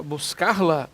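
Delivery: "buscar-la" with the R still sounded; wrong form. Shown as a demonstration. Teacher asking if this form works, "buscar-la" with R kept. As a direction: say "buscar-la" as a mistake, R before "la". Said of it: "Não".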